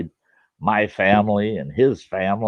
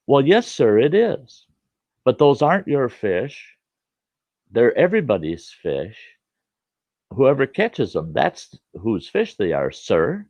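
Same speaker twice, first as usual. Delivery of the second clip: put-on higher, louder polite boy arguing; young boy's voice; 5 semitones higher, 4 dB louder than usual. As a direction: reason with him like an earnest kid.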